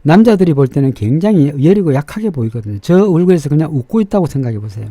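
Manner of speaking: ordinary talk, nothing marked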